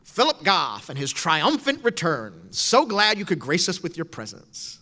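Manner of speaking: slow, mocking sarcasm; sarcastic teacher. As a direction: drag it out like a sneering teacher greeting a latecomer. Teacher mocking late student.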